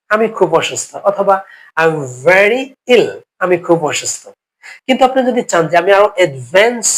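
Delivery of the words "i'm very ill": slow model phrase. Shown as a demonstration. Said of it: "teacher models English phrase".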